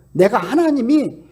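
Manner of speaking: ordinary talk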